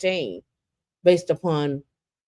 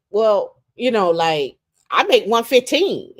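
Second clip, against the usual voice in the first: high, proud mock tone; imitating her boast; 5 semitones higher, 3 dB louder than usual. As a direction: show off the salary, voice up. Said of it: "she was like".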